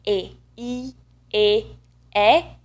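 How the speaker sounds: isolated Italian vowels, each held and separate; exaggerated vowel demo. Shown as a demonstration. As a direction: overdo each pure vowel for a learner. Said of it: "Of course, now I am exaggerating".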